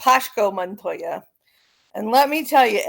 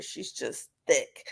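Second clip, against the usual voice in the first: deadpan; 7 semitones lower, 7 dB quieter, slower than usual. Real, not acted. Describing dog, deadpan emphasis.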